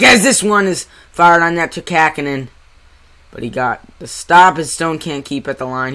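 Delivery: live hockey call, brisk; play-by-play commentary. Acted. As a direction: call the game like a broadcaster.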